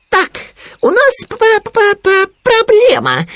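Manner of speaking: high, loud, stammering little animal; Khryunya, self-important. A narrator's reading. Khryunya addressing Owl with a problem, important and squeaky. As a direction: announce it importantly, stuttering on the key word. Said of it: "важно обратился Хрюня".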